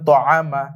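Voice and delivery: "তআমা" with a thick, full first sound; thick Arabic letter. Shown as a demonstration. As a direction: say "তআমা" with a heavy ত. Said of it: "মোটা করে পড়তে হবে". ("তআমা"-র ত মোটা করে উচ্চারণ)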